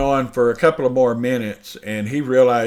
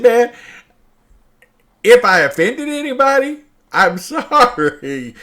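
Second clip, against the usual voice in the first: high, louder, laughing through the apology; can't keep a straight face while saying sorry; nervous laughter breaking into the apology; 11 semitones higher, 7 dB louder than usual. Retold or imitated. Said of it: "I just start laughing".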